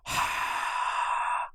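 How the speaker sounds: slow warm "ha" breath into hand; hot breath out. Shown as a demonstration. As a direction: breathe out warm through open mouth. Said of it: "Put your hand over your mouth".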